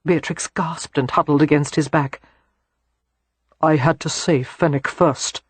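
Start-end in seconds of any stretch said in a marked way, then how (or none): 3.6-5.4 cool. Acted. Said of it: "Christopher said coolly".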